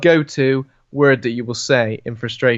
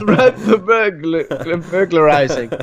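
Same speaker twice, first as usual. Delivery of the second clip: slow drawn-out phrase; 3 semitones higher, slower than usual. Acted. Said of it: "I like the way you said it".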